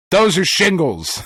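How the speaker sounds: slow, flat matter-of-fact doctor; a hint of a disappointed doctor, drawn out. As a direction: state it like it's obvious, slowly. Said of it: "He goes".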